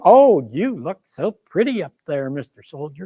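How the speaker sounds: lightly voiced boy's taunt, falling away at the end; mocking little boy. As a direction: tease the soldier with swooping pitch. Boy mocks Grant, first take.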